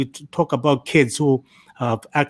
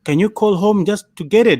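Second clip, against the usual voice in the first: lightly imitated Indian accent, higher; mock Indian scam caller, higher and a bit louder; 7 semitones higher, 4 dB louder than usual. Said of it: "the Indian accent".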